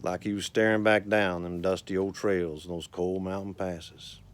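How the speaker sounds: unhurried rhythmic storytelling recital; cowboy poetry recital. Acted. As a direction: recite it like a cowboy poet at a campfire.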